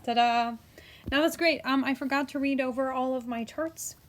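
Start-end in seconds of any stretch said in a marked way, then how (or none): 0.0-1.6 excited ta-da. Real, not acted. Teacher shows off the finished chart, excited. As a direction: present it like a magic trick.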